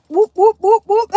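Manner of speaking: string of loud, high whoops; hyped-up hollering whoops; celebratory whooping. Real, not acted. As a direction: whoop it up for the crowd. Cheering on the Kent crew.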